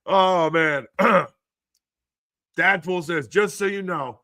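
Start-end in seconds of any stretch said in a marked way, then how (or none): 3.3-4.2 reading the chat line, breaking into laughter; can barely get the words out for laughing; laughing while reading. Real, not acted. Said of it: "I don't know why this is so funny to me".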